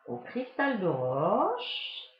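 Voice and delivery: words around a sip of coffee; talking while drinking coffee; while sipping a drink. Real, not acted. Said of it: "je bois mon petit café".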